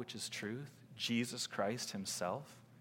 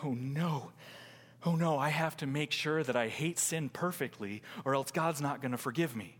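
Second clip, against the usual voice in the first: mild mock worry; anxious legalist; 4 semitones higher than usual. Anxious legalist fearing God won't forgive, mild mock worry. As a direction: fret lightly, as if imitating a worrier. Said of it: "fall in line with Mister Legalist".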